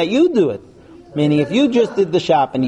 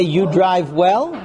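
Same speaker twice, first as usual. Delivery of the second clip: slow example compliment; 3 semitones higher, much slower than usual. Shown as a demonstration. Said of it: "Do I say".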